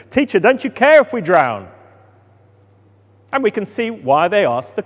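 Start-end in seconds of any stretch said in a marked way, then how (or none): 0.1-1.7 desperate cry. Acted. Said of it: "shaking him desperately".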